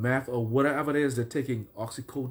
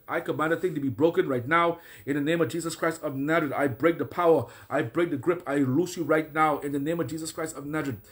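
firm, commanding decree; preaching a deliverance prayer. Acted. Preacher commanding the listeners' bondage broken, firm decree. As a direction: break the power over them with authority.

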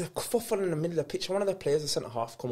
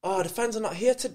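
lightly imitated broken-English accent; 4 semitones higher than usual. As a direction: retell it in halting broken English, a touch higher. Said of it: "but in a broken accent".

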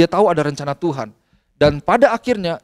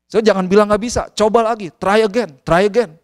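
mildly stern retold urging; tough-love father; 3 semitones higher than usual. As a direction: push the child firmly to keep trying. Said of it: "Kadang-kadang saya agak kerasin". (menirukan ayah yang agak keras mendorong anaknya)

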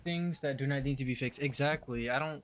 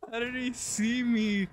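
panicking gamer; 9 semitones higher than usual. Real, not acted. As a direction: ask in frantic disbelief. Panicked repeat while chased.

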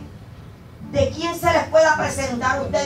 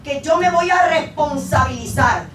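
impassioned vow; 3 semitones higher, 5 dB louder than usual. Retold or imitated. Acting the repentant man's emphatic vow.

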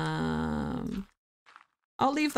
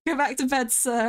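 playful higher command to a villager; playful scolding; 5 semitones higher than usual. Real, not acted. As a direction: shoo the villager off to bed, sir. Tells villager again.

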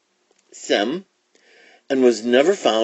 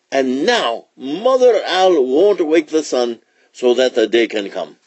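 lively, higher-pitched royal pronouncement; lion king summing up; 5 semitones higher, 3 dB louder than usual. Acted. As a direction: chant the chain of blame to the council.

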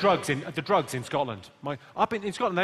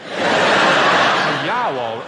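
loud, overdone Brummie vowels; all vowels, hammed-up Brummie; exaggerated Birmingham accent; 2 semitones lower, 10 dB louder, much slower than usual. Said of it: "That was just all vowels".

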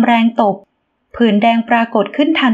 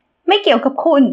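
higher, snapping shout; sharp angry cry; 4 semitones higher, slower than usual. A narrator's reading. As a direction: bite his head off. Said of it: "หญิงสาวแวดเสียงลั่น". (แหวเสียงลั่นอย่างโกรธจัด เสียงสูง)

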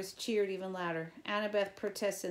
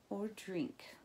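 whispering; 2 semitones higher, 5 dB quieter than usual. Real, not acted. Spooky aside.

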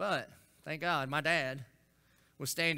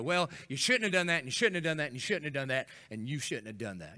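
preachy scolding; 2 semitones lower than usual. Retold or imitated. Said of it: "stand up in front of you and go".

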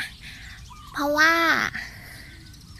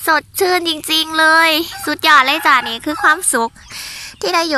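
louder, bright with happiness; joyful; 4 semitones higher, 5 dB louder than usual. Real, not acted. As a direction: gush with pure joy. Joy at being in nature. (พูดอย่างมีความสุข เสียงดังขึ้น)

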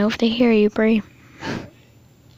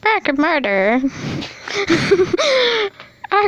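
grandma voice; 4 semitones higher than usual. Pretend. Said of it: "do not be offended of my grandma voice".

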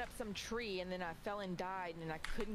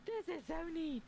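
retold wonder; 9 semitones higher than usual. Retold delight at pet.

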